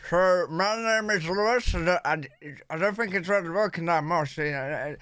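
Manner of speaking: tongue-curled attempt at a Native American accent. Shown as a demonstration. Learner testing a curled-tongue accent on the viewers, tentative American accent. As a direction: try the reservation accent, tongue curled back. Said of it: "curl your tongue to the roof of your mouth".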